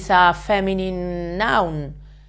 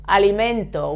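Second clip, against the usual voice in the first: alimento stressed on MEN; alimento, weight on men; penultimate stress. Shown as a demonstration. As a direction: put the stress on the next-to-last syllable of alimento. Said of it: "stress the penultimate syllable".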